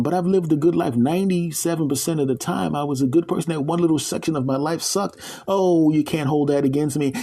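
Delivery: high, whiny pleading voice. Acted. Man begging the gatekeeper lady, whiny. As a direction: beg to be let in.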